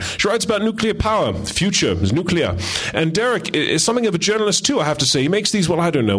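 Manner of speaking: put-on chatty Australian accent, flattering the guests. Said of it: "that's my Australian accent".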